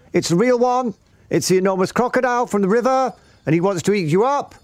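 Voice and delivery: very high singsong warning; Roly-Poly Bird. A narrator's reading. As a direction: chirp the alarm like a frantic bird. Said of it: "sang the roly-poly bird".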